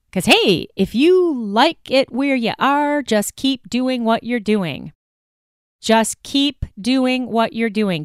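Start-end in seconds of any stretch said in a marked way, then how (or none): 3.0-4.9 dry, mocking sarcasm; sarcastic. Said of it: "Do I sound sarcastic?". 5.8-8.0 slow, heavier sarcasm; sarcastic, slower. Acted. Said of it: "Do I sound sarcastic?".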